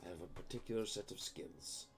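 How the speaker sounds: lightly put-on Irish accent, threatening; weird Irish accent. Phone caller vows to hunt them down, mock Irish accent. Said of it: "in a weird Irish accent".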